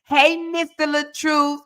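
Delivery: simper to flatter Mister LaTruth; mocking fawning. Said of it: "you was like".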